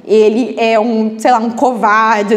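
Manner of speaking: drawn-out, lightly scornful remark; slow mock verdict. Reader scorning the fleeing character in a margin note. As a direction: judge the runaway character, half-joking. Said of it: "Aí você fala".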